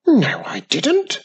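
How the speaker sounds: loud high protest; screaming denial. A narrator's reading. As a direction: scream it at them. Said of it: "Slimy screamed".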